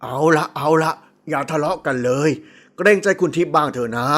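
low-pitched man calming a quarrel; placating father. Acted. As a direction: settle them down as a weary father. Father calms quarrelling daughters.

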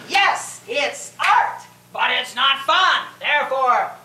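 parroting the reviewer with light scorn; mock critic voice. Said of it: "here they are saying".

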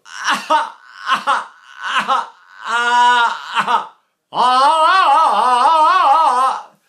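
high, loud open "ah" wails; imitated baby cry. Shown as a demonstration. Teacher showing how babies really cry, imitated wail. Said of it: "the truth is they say".

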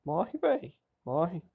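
high-pitched yell at the enemy; excited yell. Real, not acted. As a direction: scream it at the enemy, hyped. Gamer yelling at enemy. (grito animado)

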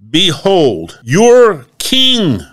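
high, loud presentation to the crowd; taunting proclamation. Acted. Pilate presenting Jesus to the Jews, loud taunting call. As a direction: fling it at them like a challenge.

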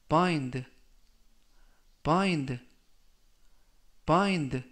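"bind" with a long i, falling; careful pronunciation demo. Shown as a demonstration. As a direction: model "bind" clearly to rhyme with kind. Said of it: "라고 발음하시면 되겠고요".

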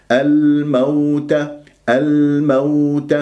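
slow "الموت" with clear l and an even gliding aw; waw without stress. Shown as a demonstration. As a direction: let the waw in "الموت" flow, unpunched. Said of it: "ومن غير نبر للواو".

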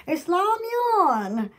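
"Lamyeon" said slowly in Korean; Korean pronunciation. Shown as a demonstration. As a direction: carefully sound out "Lamyeon". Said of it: "I could pronounce it".

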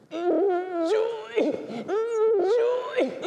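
strained, very high squeal, imitated; struggling to talk. Priest trying to tell them "joy", imitated strangled squeak. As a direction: squeeze the word out through mock choked tears. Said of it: "but I can't talk".

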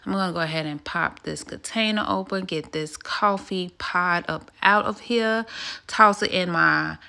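affected calm vlog read; put-on soft vlogger voice. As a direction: murmur it like a soothing aesthetic video. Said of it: "why am I talking like this? This is not how I talk".

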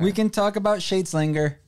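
big booming announcer call; fighting game announcer. Pretend. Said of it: "You like my announcer voice?".

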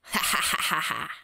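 mocking laugh. Bat mocks the toy flashlight.

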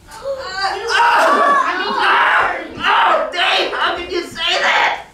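mock offended. Preacher playing offended at Dave's joke, laughing mock shock. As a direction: clutch your pearls, laughing.

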